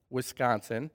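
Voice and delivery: a soft, low Wisconsin-accented "Wisconsin." with a rising end; lightly Wisconsin-accented "Wisconsin.". Shown as a demonstration. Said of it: "you'll hear it a little bit in my accent".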